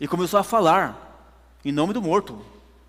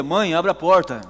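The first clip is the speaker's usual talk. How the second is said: louder, insistent call to be let in; 6 dB louder than usual. Retold or imitated. Son at the door calling to his mother, insistent and loud. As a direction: call through a closed door, firmly.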